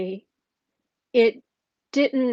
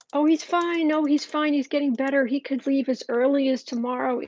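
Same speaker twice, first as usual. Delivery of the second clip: mock-breezy reassurance, higher and louder; mocking quote; 3 semitones higher, 4 dB louder than usual. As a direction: parrot the doctor's cheery spin sarcastically. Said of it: "was laughable".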